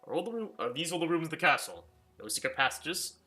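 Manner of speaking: a jittery maid deflecting with a laugh; nervous housekeeper. Acted. Housekeeper laughing off the guest's questions, high and nervous.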